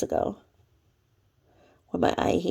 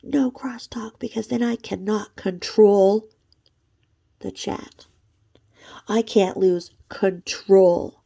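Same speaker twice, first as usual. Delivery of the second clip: imitating Jules; slower than usual. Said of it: "Because she says".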